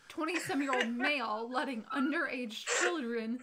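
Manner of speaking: amused, laughing. Real, not acted. Laughing at the awkward scenario.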